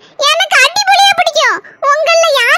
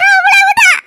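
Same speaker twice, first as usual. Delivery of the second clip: yelling threats at Neelambari from the doorway; angry threat; 3 semitones lower than usual. Acted. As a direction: bellow at her as a furious mother-in-law waving a broom. Same threat said again.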